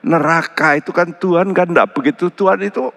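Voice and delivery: a hint of the dismissive churchgoer; mock quote. Preacher mocking those who deny hell, light mock voice. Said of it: "orang berkata".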